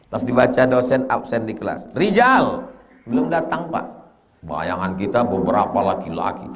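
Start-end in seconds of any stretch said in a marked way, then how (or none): 2.0-3.9 lightly higher, a student's reply; student answering. Retold or imitated. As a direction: answer the teacher like a pupil. Student answers roll call.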